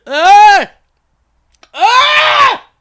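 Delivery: sudden high hiccup shriek; a high yelp from a hiccup; startled hiccup yelp. Real, not acted. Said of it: "hiccups scare me".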